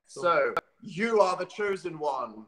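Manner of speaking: slow, grand chosen one voice; grand announcement. Acted. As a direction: proclaim it slowly like a prophecy.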